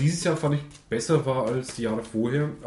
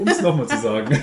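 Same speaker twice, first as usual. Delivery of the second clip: laughing; 7 dB louder than usual. Real, not acted. Laughing while finishing.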